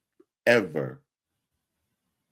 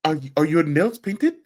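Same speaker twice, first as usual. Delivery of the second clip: imitating a Nigerian accent, pitched higher; imitating a Nigerian uncle's accent, higher; 7 semitones higher than usual. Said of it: "in his Nigerian accent".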